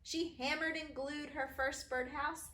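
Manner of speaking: bouncy, sing-song rhyme reading; rhyming read-aloud. A narrator's reading. Author reading her rhyming book to kids, bouncy.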